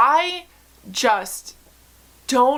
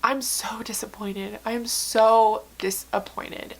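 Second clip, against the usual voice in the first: heartbroken whisper; slower than usual. Real, not acted. Heartbroken over a beloved author.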